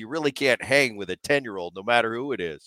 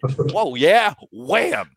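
a touch of a startled whoa rising to a higher, louder wham; mock exclamation; 4 semitones higher, 4 dB louder, much slower than usual. Reliving hitting his little brother, mild mock excitement. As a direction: lightly act the punch landing. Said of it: "I just went".

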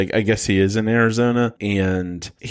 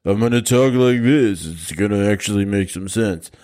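Sylvester Stallone impression. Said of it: "my old Sylvester Stallone, uh, impression".

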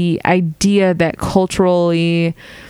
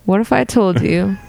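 infomercial pitch. Pretend. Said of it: "I'm an infomercial".

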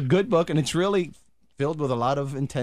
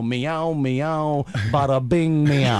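Brooklyn cat; much slower than usual. Retold or imitated. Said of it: "they'd go".

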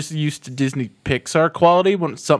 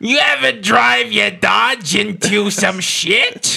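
Gottfried redneck; 5 semitones higher, much slower than usual. Pretend. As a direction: yell it like a shrill redneck. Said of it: "Gilbert Gottfried as the Redneck".

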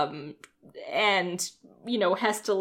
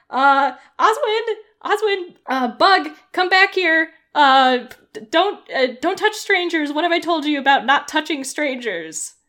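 flustered scolding mom; 5 semitones higher, 5 dB louder than usual. Acted. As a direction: call the kids back, flustered. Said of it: "she's like".

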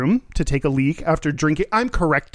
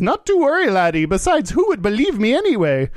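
high, lilting Irish leprechaun; Irish accent; 5 semitones higher than usual. Acted. Joke teller voicing a leprechaun reassuring a man, high mock Irish accent. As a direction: put on a hammy Irish brogue, pitched up. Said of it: "an Irish voice".

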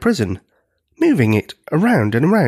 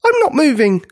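high, strained giant voice; high-pitched, peculiar frightened reply; 14 semitones higher, 3 dB louder than usual. A narrator's reading. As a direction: say it oddly, frozen with fear. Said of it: "in a peculiar voice".

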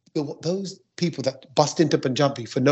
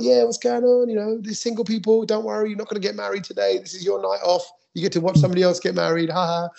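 higher, upbeat emcee patter warming up the room; MC crowd hype; 5 semitones higher than usual. Shown as a demonstration. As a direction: hype the wedding crowd like a host, easing off by the end. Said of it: "my kind of usual bit of crowd stuff".

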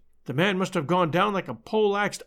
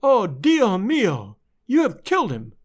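anguished cry; 3 semitones higher, 3 dB louder, slower than usual. A narrator's reading. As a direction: let the shock break into a cry. Wife sees body, repeats line.

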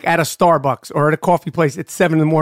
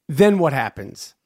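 whispered; 4 semitones lower, slower than usual. Real, not acted. Interviewer leans in, hushed.

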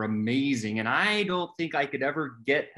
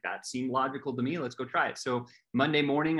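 normal talking voice

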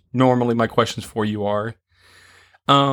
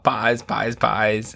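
mad scientist; much slower than usual. Pretend. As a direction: cackle like a villain with his loot. Gloating over pies, evil laugh.

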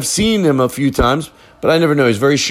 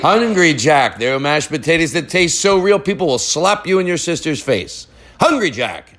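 mock ad read; 4 semitones higher than usual. Spoofing an ad read.

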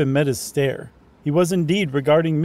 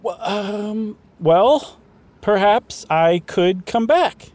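higher, louder toff voice; posh English gentleman; 7 semitones higher, 4 dB louder, much slower than usual. Acted. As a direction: play a chirpy English toff. Voices the narrator.

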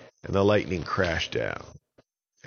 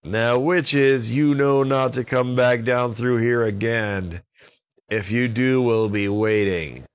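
loud, firm warning; stern warning; 4 semitones higher, 6 dB louder than usual. Acted. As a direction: warn them off firmly. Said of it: "Avon said".

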